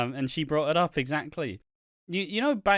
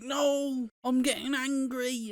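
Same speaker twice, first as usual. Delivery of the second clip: much higher mock kid whine; imitating the upset kid; 11 semitones higher, slower than usual. Chubby kid losing at Monopoly answering his mum, higher mock kid voice. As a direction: squeak it like an upset child. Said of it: "the kid's like".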